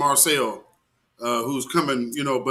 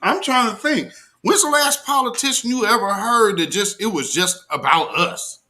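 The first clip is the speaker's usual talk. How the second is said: amazed; 6 semitones higher than usual. Real, not acted. Marvels at the politician.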